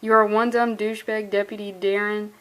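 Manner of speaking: stifle a smile as you read; a hint of a laugh in the voice; smiling. Real, not acted. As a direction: reread while grinning. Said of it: "You can hear it in my voice".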